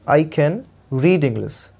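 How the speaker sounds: very slow, spaced teaching read; slow model reading. Shown as a demonstration. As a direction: spell it out slowly for learners. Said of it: "teacher repeating slowly".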